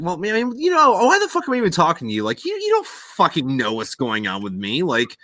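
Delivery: mock-furious retort to the therapist; hammed-up hostile outburst; combative rant. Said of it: "Very combative guy".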